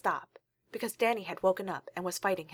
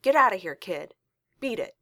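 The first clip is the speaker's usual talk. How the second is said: loud angry yell, pitched up; 7 dB louder than usual. Acted. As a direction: bark the kid away. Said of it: "he yelled at her".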